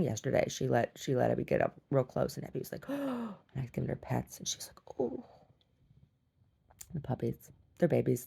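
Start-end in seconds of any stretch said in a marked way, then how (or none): 2.9-5.2 soft breathless whisper; hushed. Retold or imitated. Whispering the shy dog's contented sigh. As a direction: hush it like petting a shy dog.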